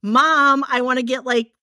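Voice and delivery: lightly put-on Michigan accent; childhood Michigan accent. Shown as a demonstration. Recalling asking Mom for money, attempted Michigan accent. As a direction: slip back into a rusty Michigan accent. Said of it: "growing up, I'd be like".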